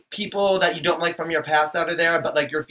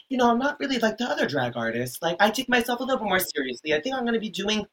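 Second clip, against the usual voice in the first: lightly mocked pretentious artist, higher and softer; self-serious drag queen; 4 semitones higher, 5 dB quieter than usual. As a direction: gently send up an earnest drag artist. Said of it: "a drag queen talking about, like, their music".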